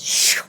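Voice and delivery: hushed "shh" sweep noise; imitated whoosh. Woman imitating a man sweeping canisters down, whoosh noise. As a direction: make a swooshing sweep sound.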